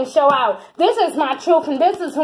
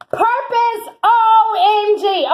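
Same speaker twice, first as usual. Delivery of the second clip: higher, slow drawn-out O M G; excited squeal; 5 semitones higher, much slower than usual. Real, not acted. Reader squeals over the Purpose card. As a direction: squeal the letters in delight. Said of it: "let me stop screaming".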